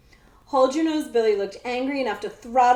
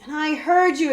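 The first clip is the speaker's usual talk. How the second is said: exclaiming; 6 semitones higher, 5 dB louder than usual. A narrator's reading. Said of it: "exclaimed Captain Itz".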